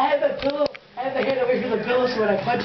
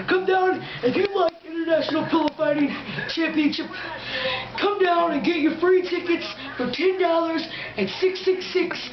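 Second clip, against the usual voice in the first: megalomaniac rant; 4 semitones higher than usual. Pretend. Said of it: "fight promo ad".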